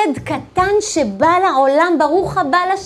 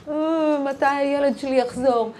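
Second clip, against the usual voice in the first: softer mock wail of a grieving mother; tearful Rachel; 2 semitones lower, 6 dB quieter than usual.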